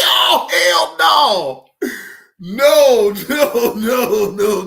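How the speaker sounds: shout. Retold or imitated. Retold outraged reaction.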